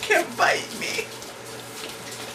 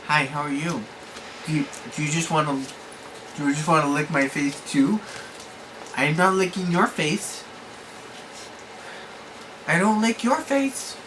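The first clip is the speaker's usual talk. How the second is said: quiet soothing voice; 12 semitones lower, 7 dB quieter than usual. Real, not acted. Calm low talk to pets.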